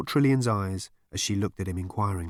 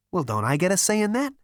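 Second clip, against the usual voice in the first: indignant Zaphod; 10 semitones higher, 4 dB louder, faster than usual. A narrator's reading. Zaphod voiced.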